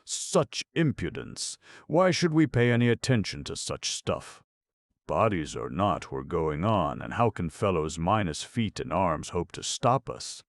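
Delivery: indignant. Acted. Indignant elephant scoffs at warning.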